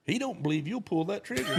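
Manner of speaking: punchline laughed out; laughing punchline. Retold or imitated. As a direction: deliver the twist chuckling. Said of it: "The interpreter goes".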